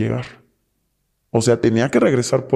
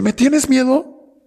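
slow taunting captor; 11 semitones higher, much slower than usual. Retold or imitated. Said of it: "me dice".

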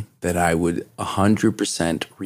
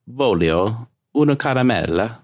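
lightly voiced kids asking in Italian "Voglio una caramella"; a hint of the kids begging in Italian; quoting kids in Italian; 4 semitones higher than usual. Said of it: "All my kids say".

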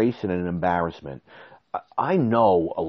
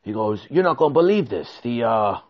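higher, fast mock-urgent worker; imitating the contractor; 5 semitones higher than usual. Contractor telling him the truck left, higher mock-alarmed voice. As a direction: break bad news in a rush. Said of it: "he says".

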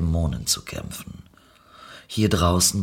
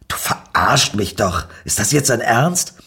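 getting angry; 4 dB louder than usual. Acted. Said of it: "Langsam wurde Nicky wütend".

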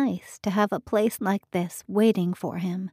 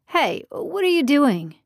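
put-on lightly raised, eager young man; a hint of an eager young man; 6 semitones higher, 3 dB louder than usual. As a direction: voice Ricky a bit higher and keen. Ricky voiced by narrator.

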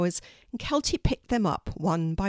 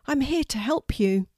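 higher, kindly voice; gentle reassurance; 7 semitones higher than usual. A narrator's reading. Kelty reassures the trapped raven, gentle. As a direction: reassure her, pitched up lightly. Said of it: "said Kelty gently".

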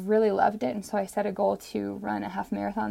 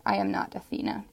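poem title; 11 semitones lower than usual. Shown as a demonstration. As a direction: announce the poem's title gently. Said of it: "I wrote this poem".

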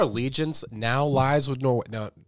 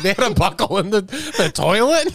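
surprised; 4 semitones higher, 3 dB louder than usual. Retold or imitated. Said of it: "I was like".

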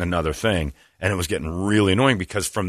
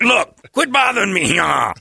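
mock loud taunt; 12 semitones higher, 5 dB louder than usual.

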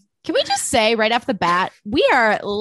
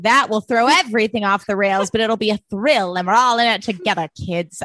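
put-on old movie voice. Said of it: "now the voice is back".

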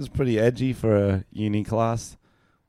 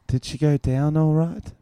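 wife reading line; 5 semitones higher than usual. Shown as a demonstration. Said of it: "give me the lines on camera".

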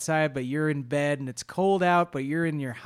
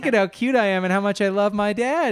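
sweet pleading cat; 4 semitones higher, 3 dB louder than usual. Retold or imitated. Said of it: "that's what Marv's trying to do".

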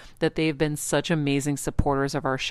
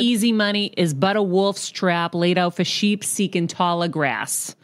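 Boston accent; 3 semitones higher than usual. Shown as a demonstration. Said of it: "Boston accent".

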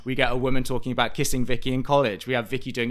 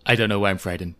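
mock faded star; 2 semitones lower, faster than usual. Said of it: "like she's in Sunset Boulevard".

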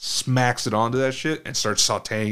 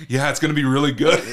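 laughing cheerfully; 4 semitones higher, 6 dB louder, faster than usual. Retold or imitated. Mom cooking with watery eyes.

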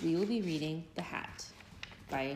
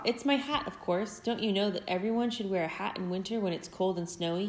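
mild mock shout. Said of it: "Hedgie shouted".

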